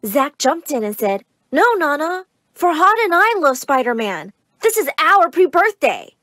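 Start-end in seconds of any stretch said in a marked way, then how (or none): 1.5-6.2 put-on high-pitched kid correcting grandmother; young boy. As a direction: pipe up as an eager little brother.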